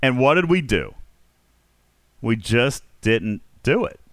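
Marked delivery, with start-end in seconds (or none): none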